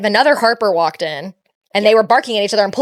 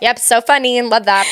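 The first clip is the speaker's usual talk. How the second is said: laughing sarcastic reply. Retold or imitated. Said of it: "I'm like".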